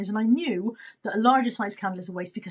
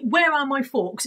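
mock exasperated call; 4 semitones higher, 4 dB louder, slower than usual. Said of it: "is all I have been saying".

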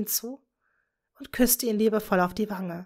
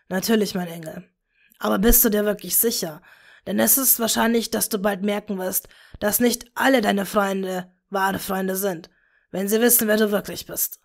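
caring father. Acted. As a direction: warn her gently. Tom voiced lower. (besorgter Vater, tiefer)

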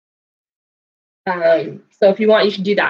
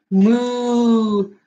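cow moo. Retold or imitated. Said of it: "What does cow say?".

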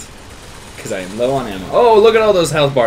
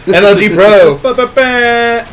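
mock bragging; 9 semitones higher, 9 dB louder, much slower than usual. Real, not acted. Mock bragging after lucky kill.

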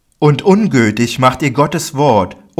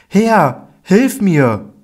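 much higher, louder cry for help; desperate plea; 9 semitones higher, 5 dB louder, much slower than usual. Acted. Canaanite woman kneels and cries for help, desperate. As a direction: beg with everything you have.

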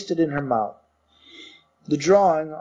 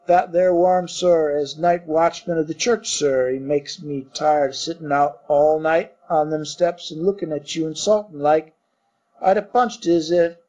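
lightly voiced Cockney servant; Cockney bellboy. Thomas the bellboy answering his master, light Cockney. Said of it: "Cockney dialect".

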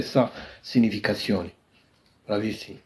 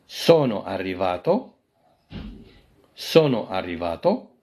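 slow, carefully spaced Italian; drawn-out teacher model line; slow model phrase; 3 semitones lower, much slower than usual. Shown as a demonstration. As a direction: say it slowly so students can copy. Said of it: "مثلًا كتقول".

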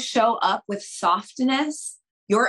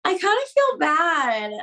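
higher, shy little admission; sheepish confession to her husband; a little bashfully; 8 semitones higher than usual. Retold or imitated. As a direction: say it bashfully, almost apologising. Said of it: "a little bashfully".

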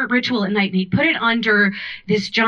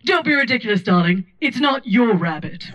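lightly voiced haughty old lady; dry old-timey put-down; old-timey Charlotte. Charlotte teasing mom about getting lost, old-timey. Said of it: "old-timey voice".

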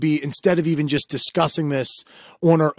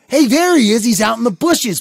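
higher, raised voice alerting the teacher; mock-alert call pointing someone out; retold call-out; 7 semitones higher, 4 dB louder than usual.

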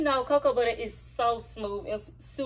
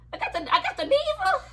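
laughing; faster than usual. Real, not acted. Giddy showing off lotion.

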